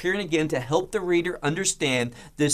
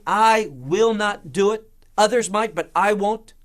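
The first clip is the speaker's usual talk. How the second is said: higher, louder stubborn vow; headstrong insistence; 4 semitones higher, 5 dB louder than usual. Retold or imitated. Preacher voicing Peter's headstrong louder vow. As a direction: insist you're the exception, I stressed. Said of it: "Peter is, is headstrong".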